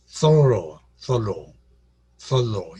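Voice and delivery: 솔로 with falling pitch from the first syllable; demonstrated pronunciation. Retold or imitated. Lecturer copying how the woman said it, 솔로 falling away. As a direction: say 솔로 as a careful model, first syllable leading. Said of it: "이렇게 발음했다".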